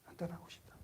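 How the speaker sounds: soft unvoiced whisper; whispered longing. Job longing to leave, whispered. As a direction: breathe it out like a weary sufferer.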